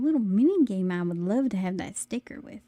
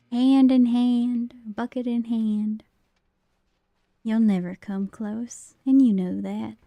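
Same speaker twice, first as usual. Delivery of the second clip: bucket voice; slower than usual. Pretend. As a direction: whisper gently as the bucket. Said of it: "Why is my bucket voice in A S M R?".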